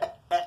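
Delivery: short quiet choked grunts; two small strangled noises; imitated choking. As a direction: imitate being held by the neck. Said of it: "hemmed him up by his neck".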